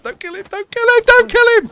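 high panicked pleading shout. Real, not acted. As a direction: beg frantically, rising. Panicked pleading, rising pitch.

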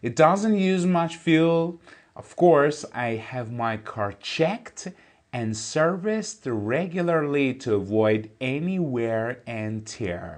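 slow, careful reading of an English text; slow textbook reading. Shown as a demonstration. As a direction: read each word out clearly for the class. Teacher reads English text aloud. (خواندن آهسته و شمردهٔ متن انگلیسی)

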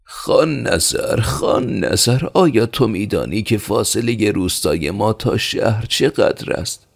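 high-pitched villager calling out, drawing out the name; pointed, high-voiced questioning; sharp challenge. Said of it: "با تندی گفت".

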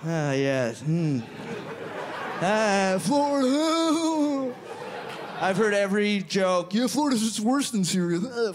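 usual speaking voice

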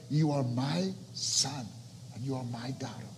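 quiet, loving reassurance; tender murmur. Acted. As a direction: say it gently like a father to a child. Father's tender reply.

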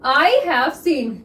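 each word drawn out slowly; slow, separated words for shorthand; slow dictation. Shown as a demonstration. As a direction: dictate it slowly for students writing. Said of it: "देखिए बहुत ध्यान से देखिएगा".

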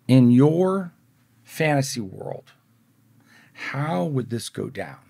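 slow, spaced-out sceptical question; deliberate challenge. Retold or imitated. Skeptic questions Mario about his supposed deal, slowly and deliberately. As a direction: draw it out with pauses, pointedly.

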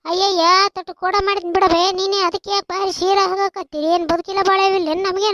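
angry scolding. Acted. Woman scolding her neighbour on the way to the movie, loud and angry. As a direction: snap back at the other woman. Women quarrel before the movie.

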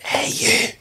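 imitating a Scottish manager calling him over, lightly; Scottish accent. Manager calls a young player over, in a mock Scottish accent. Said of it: "In a Scottish accent".

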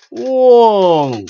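a big startled exclamation; surprised whoa. Real, not acted. Noticing the religious theme, a loud surprised whoa.

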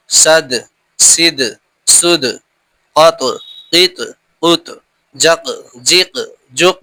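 আব, জাব, জিব, জুব with a bouncing echo on the final consonant; qalqala demo. Shown as a demonstration. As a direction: release the last letter with a small rebound. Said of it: "ঠিক এরকম আওয়াজ হবে".

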